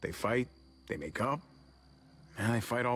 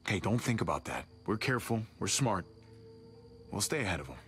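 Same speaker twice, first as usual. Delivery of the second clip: calm a worried partner; reassuring. Acted. Reassures partner worried about the herd.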